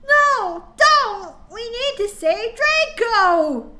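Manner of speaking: high, loud pleading; begged. Acted. Students begging Dumbledore to save Draco, loud high plea. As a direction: beg loudly up high, slowly at the end. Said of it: "we begged".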